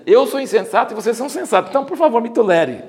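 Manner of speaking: sarcastic Paul feigning humility. Retold or imitated. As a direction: lay the sarcasm on thick with a laugh. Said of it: "Isso é sarcasmo".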